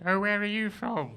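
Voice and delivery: lightly voiced posh English asker; a hint of a posh English accent; mock posh English. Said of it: "they're always like".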